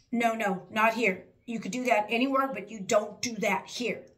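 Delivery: imitated angry tone. Retelling a coworker's sharp reply to a warning: imitating someone angry. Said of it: "He got angry at me".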